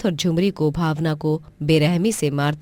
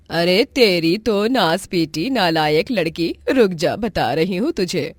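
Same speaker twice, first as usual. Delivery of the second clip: angry aunt cursing; 2 semitones higher, 3 dB louder than usual. Acted. Aunt Jhumri cursing niece before hitting her, angry. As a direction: curse the lazy girl and threaten her.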